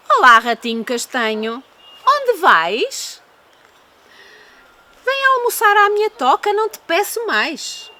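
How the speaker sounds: high, sweet-talking fox; sly fox voice. Acted. Fox invites the mouse.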